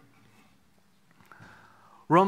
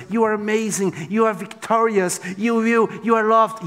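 mock flattery; 3 semitones higher than usual. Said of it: "saying good words".

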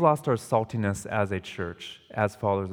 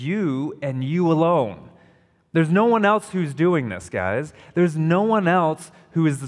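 emphatic preaching; 5 semitones higher, 4 dB louder than usual. Real, not acted. Preacher hammers you alone point.

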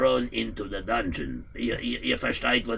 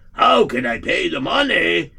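loud, higher protesting cry; outraged protest; 6 semitones higher, 8 dB louder than usual. Acted. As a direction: call out in protest at the beating. Debtor protests to the landlord.

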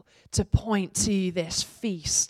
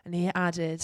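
raised, ringing reading of Revelation; scripture reading. Acted. Pastor reading Revelation aloud to the congregation, raised and ringing. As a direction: proclaim the vision to the congregation.

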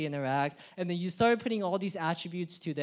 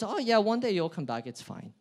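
dismissive chill God. Acted. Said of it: "God looks at that and goes".

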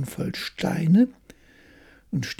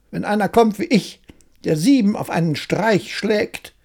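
higher, cocky tailor boasting of his deed; bragging tailor; 6 semitones higher, 3 dB louder than usual. Acted. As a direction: crow about the victory to the riders. Tailor brags to the riders.

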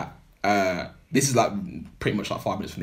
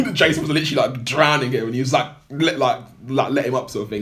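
higher and louder, laughing through it; laughing retelling; 5 semitones higher, 6 dB louder than usual. Real, not acted. Telling friends how Jason was drowned, laughing. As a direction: tell it through real laughter.

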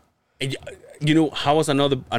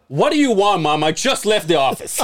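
raised, louder mock exasperation; irritated reply; 5 semitones higher, 4 dB louder than usual. Son answering his mom's call after leaving the office, mock irritated. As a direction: act out snapping at a caller, pitched up.

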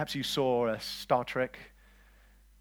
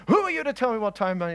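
acted indignation; 8 semitones higher, 7 dB louder, faster than usual. Acts out confronted disciple snapping back.

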